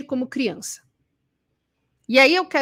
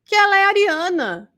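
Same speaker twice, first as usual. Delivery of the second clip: raised, mock-defiant declaration; somewhat aggressive tone; 5 semitones higher than usual. Immature person insisting that's just how she is, somewhat aggressive. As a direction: say it mildly aggressive, higher than usual. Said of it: "usa um tom meio agressivo e fala".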